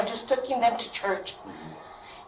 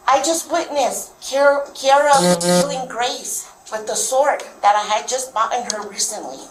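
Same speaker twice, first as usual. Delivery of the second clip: retold frantic son; 3 dB louder than usual. Son phoning mom after witnessing the killing, frantic. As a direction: retell his panicked words urgently. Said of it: "And he was all frantic".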